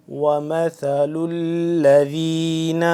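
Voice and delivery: whispered slow وَمَثَلُ الَّذِينَ with a soft ث; soft tha. Shown as a demonstration. Teacher demonstrating the verse for students, soft whispered recitation. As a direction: breathe وَمَثَلُ الَّذِينَ out softly, ث light. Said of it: "ثا کو نرمی سے پڑھنا ہے".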